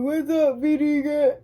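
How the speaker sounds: hammed-up channel greeting; mock intro shout. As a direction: holler the greeting mockingly. Mocking partner's intro for the camera.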